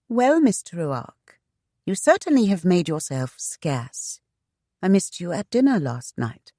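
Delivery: put-on a teasing young lady; female character voice. Voices Shanna.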